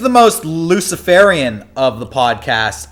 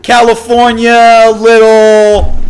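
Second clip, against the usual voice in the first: loud, high, drawn-out Boston taunt; big hammed-up Boston mockery; mock Boston accent; 5 semitones higher, 5 dB louder, slower than usual. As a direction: jeer slowly in exaggerated Boston. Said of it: "So that's Boston".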